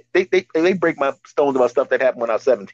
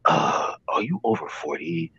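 commercial announcer; 3 semitones lower, 3 dB quieter than usual. Retold or imitated. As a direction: imitate an earnest TV ad pitch. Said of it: "I listen to these commercials".

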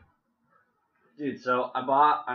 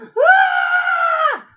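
mock scared yelps; 15 dB louder than usual. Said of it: "She's the mom that, like, holds your hands".

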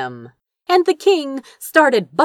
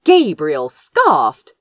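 ordinary delivery, nothing marked

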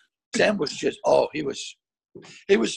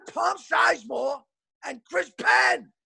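slow shouted names; 5 semitones higher, slower than usual. Retold or imitated. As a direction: hammer each name out slowly.

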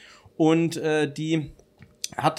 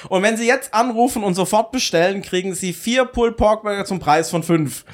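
infomercial; 3 semitones higher than usual. Pretend. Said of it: "lassen wir das Pitchen doch mal lieber den Profis".

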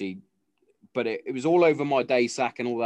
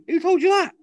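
high, loud mock-outraged dad; loud, high-pitched comic indignation; indignant retort; 8 dB louder than usual. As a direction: squawk it back in disbelief. Dad's indignant retort to daughter.

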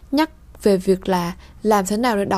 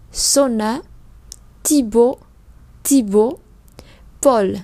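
each word called out louder for the class to repeat; 3 dB louder, much slower than usual. Shown as a demonstration. Teacher leading class repetition, loud clear calls. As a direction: call each word out clearly for students to echo. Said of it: "vous répétez après moi".

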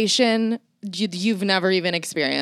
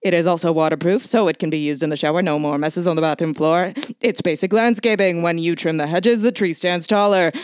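lightly hammed old-time radio announcer reading ad copy; 1940s radio announcer. Host reads a grooming ad as an old radio announcer, hammed-up. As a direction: sell it like a vintage radio pitchman, mildly. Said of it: "I'll do it like a nineteen forties radio announcer".

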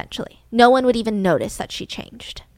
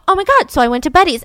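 faux dismay; 5 semitones higher, 6 dB louder, faster than usual. Candy's scripted reply.

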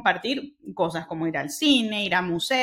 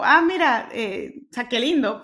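touched and delighted. Retold or imitated. Reacción propia retomada, conmovida.

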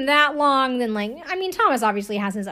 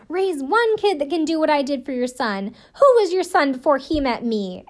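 mild mock scream, slightly raised; retold scream; 4 semitones higher, 3 dB louder than usual. Podcaster retelling a bride screaming at her father-in-law, mock yell. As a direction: imitate an angry outburst, only half yelled. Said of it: "she's screaming at him".

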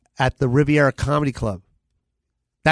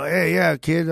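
lightly voiced old-school mobster; a hint of a gruff club booker; 2 semitones higher, slower than usual. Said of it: "I'm doing, like, a mobster voice right now".

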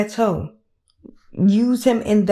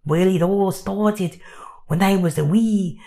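bad French accent. Pepe on a therapist's couch, bad French accent. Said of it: "I don't have a good French accent voice yet".

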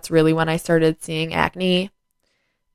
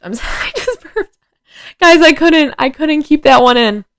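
higher, giggling through the apology; embarrassed laugh; 10 semitones higher, 4 dB louder than usual. Real, not acted. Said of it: "Oh, I just burped".

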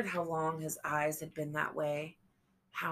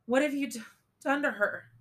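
high, loud and horrified; alarmed shout; 9 semitones higher, 7 dB louder, faster than usual. A narrator's reading. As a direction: cry it out in horror. She confronts him over the girl.

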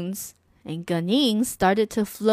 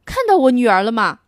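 anxious father; 5 dB louder, faster than usual. Acted. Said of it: "焦急地问道".

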